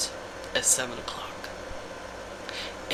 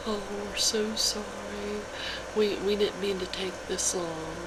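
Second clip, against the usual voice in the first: mock apologetic customer; 7 semitones higher than usual.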